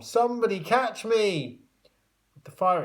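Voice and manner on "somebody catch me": high, loud plea; pleading cry. A narrator's reading. Tom begging the others to catch him. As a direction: beg them to catch you.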